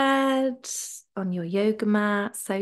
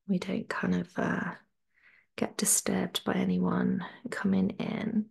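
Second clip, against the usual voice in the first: whisper; 6 dB quieter than usual. Real, not acted. Quiet before class starts.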